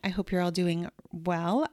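blocked nose from a summer cold; stuffed up nose. Real, not acted. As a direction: talk through a stuffy nose. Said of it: "I sound a little bit stuffed up".

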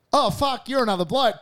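high-pitched mock surprise; retold startled realisation. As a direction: imitate a bloke suddenly realising his mistake. Bloke realises he mistook him.

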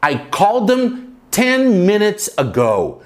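I called them ten minutes ago, slow with stress on ten; careful slow model; slow model sentence. Shown as a demonstration. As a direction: dictate it slowly to learners. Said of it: "Eu chamei eles dez minutos atrás".

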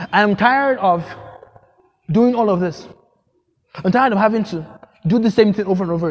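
an exhausted prophet crying out to God; loud exhausted complaint. Acted. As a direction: cry out in weary loud protest to God. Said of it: "And you know what he said?".

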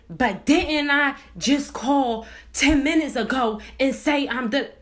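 mildly mocking irate comeback; retold irate snapping. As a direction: imitate her impatient interruption. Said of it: "how fast she went from zero to a hundred".

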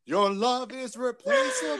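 retold yell. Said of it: "he just yelled back".

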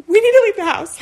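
nervous laughter through the words; laughing. Retold or imitated. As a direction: babysitter laughing as she warns the kids to get out. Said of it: "looking at 'em and laughing".

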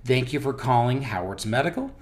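scripted receptionist greeting; model phone greeting. Shown as a demonstration. Boss demonstrating how staff must answer the phone, model greeting. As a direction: answer the line as a trained call-center agent. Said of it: "Answering the phone is very, very specific".

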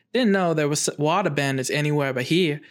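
attempted Southern US accent, slipping; a badly faked Southern Belle accent. Host quotes swamp man Tho, slipping into Southern Belle accent. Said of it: "like, a Southern Belle accent now".

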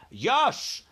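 high, emphatic one-word giant reply; BFG giant. Acted. BFG agreeing to the jeeps, emphatic reply. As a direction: answer firmly as the giant. Giant answers the army head.

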